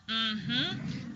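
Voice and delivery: easy speaking-pitch mm-hmm; a relaxed mm-hmm at normal speaking pitch; habitual pitch mm-hmm. Shown as a demonstration. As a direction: hum it the way you would agree with someone. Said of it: "you can do a mm-hmm".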